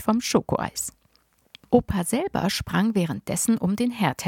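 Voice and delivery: put-on lively read-aloud for children; reading a children's book aloud; story narration. A narrator's reading. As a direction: tell it like a bedtime adventure.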